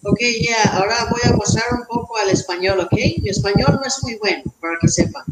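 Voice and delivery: put-on Spanish with an American accent. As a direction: speak Spanish like an American star. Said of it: "ahora sí vamos a hablar como mi persona".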